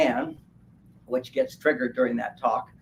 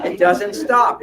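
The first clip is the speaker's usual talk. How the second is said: laughing, loud, up high on it doesn't stop; 5 semitones higher, 7 dB louder, slower than usual. Real, not acted. Laughing at men's endless thoughts, loud and high. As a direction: laugh it out, louder.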